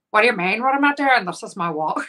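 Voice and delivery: lightly attempted Northern Irish accent; badly imitated Northern Irish lilt; terrible Northern Irish accent. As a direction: have a rough go at Northern Irish. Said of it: "That's a terrible Northern Irish accent".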